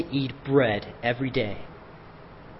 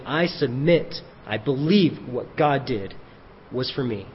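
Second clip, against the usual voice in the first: tender sincerity; 4 semitones lower, 5 dB quieter than usual. Real, not acted. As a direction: quietly draw the listener in. Tender invitation to believe.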